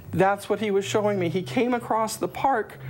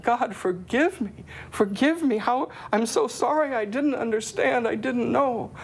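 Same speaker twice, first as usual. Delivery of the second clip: higher, pleading voice near tears; tearful plea; 4 semitones higher than usual. Retold or imitated. Retelling her repentance, a tearful higher plea. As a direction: beg for forgiveness through tears. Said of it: "I broke down sobbing".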